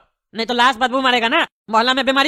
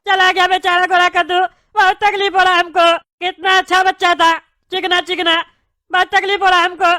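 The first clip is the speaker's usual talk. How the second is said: fake crying; 3 semitones higher than usual. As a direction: overdo the tearful grief for the neighbour. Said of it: "अरे रो क्यों रहा है तुम पागल?". (पड़ोसी को दिलासा देते हुए नकली रोना)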